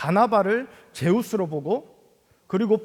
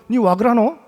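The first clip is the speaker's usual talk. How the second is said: a startled Gyeongsang dialect exclamation, a touch louder; mock-startled Gyeongsang dialect retort; 3 semitones higher, 5 dB louder than usual. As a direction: blurt it out in Gyeongsang dialect, caught off guard. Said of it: "깜짝 놀래가지고".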